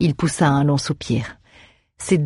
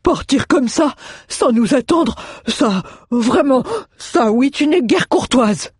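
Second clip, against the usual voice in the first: high, slow, scolding dwarf voice; offended little dwarf's protest; indignant dwarf; 9 semitones higher than usual. A narrator's reading. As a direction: scold in a put-on high voice, stretching the words. Narrator voices Mjoln.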